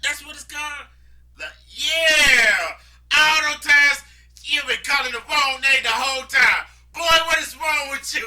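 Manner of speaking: high, loud scolding shout; loud high outraged scolding; incredulous yelling. Retold or imitated. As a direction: yell at him in disbelief. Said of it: "I was like".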